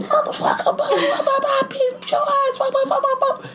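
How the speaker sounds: mock tirade in piercing falsetto; hammed-up girl blowing up, very high; imitated yelling girl. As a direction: squeal out a comic angry rant. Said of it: "Why is she yelling?".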